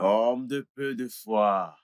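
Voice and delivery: slow, grandly drawn-out chiding; mock reproach. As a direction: tease the doubter like a preacher. Son mock-scolds doubting father. (reproche moqueur, lent et solennel)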